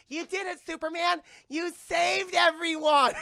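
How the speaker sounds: high voice building to a shout; hammed-up adoring cry, stretched out at the end; gushing mock cheer. Lois praising Superman amid death, mock excited shout. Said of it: "It's like".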